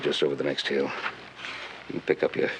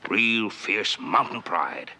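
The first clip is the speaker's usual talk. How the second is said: slow mock admiration; 4 semitones higher, much slower than usual. Pastor mocks Tulsa's pride.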